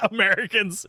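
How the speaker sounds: said through a laugh. Real, not acted. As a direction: laugh the word out. Laughing repeat of the answer.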